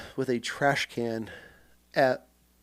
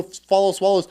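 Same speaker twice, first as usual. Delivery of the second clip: yelling at attention; 4 semitones higher than usual. Retold or imitated. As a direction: scream it at attention.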